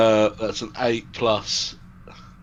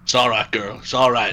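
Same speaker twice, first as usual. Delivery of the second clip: soothing; 2 semitones lower than usual. Acted. Player calming a reindeer, soothing. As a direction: gently talk a frightened animal down. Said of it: "try and calm her down".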